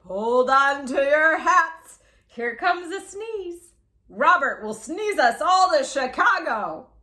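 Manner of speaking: slow, loud urgent warning; alarmed warning. Acted. Doctor warning the party, urgent and slow. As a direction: brace everyone for the sneeze.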